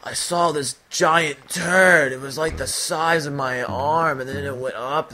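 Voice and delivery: a hint of a slow, drowsy pal; slow-talking friend. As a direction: drawl it out like a dim-sounding buddy. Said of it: "he would talk like he was slow".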